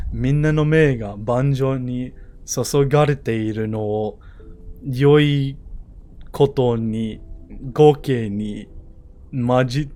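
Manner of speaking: Sai's voice. Acted. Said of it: "so excited to use the voice".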